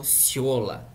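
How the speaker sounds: "ciola" with a stressed yo sound, drawn out. Shown as a demonstration. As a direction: say "ciola" slowly with YO in the middle. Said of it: "ficou com esse som de yo". ("ciola" com som tônico de "yo")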